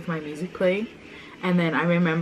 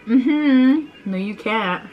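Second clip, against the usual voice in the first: put-on taunting kid; 5 semitones higher, 4 dB louder, much slower than usual. Quoting the sister's taunt.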